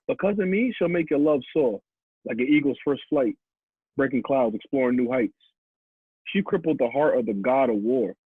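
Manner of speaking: measured, rhythmic poetry recital; spoken-word poem. Acted. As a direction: deliver each line like spoken word, pausing between lines. Performs own poem aloud.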